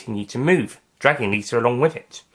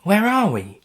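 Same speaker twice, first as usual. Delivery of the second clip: stunned question; 9 semitones higher, slower than usual. Acted. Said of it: "Lisa was still in shock".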